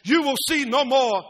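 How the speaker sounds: emphatic proclamation to a crowd; Moses addressing people. Acted. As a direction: proclaim it firmly, hitting key words. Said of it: "stands before the people and says".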